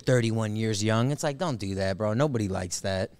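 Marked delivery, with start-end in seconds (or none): 0.0-1.1 mock cheery. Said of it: "You want me to be like".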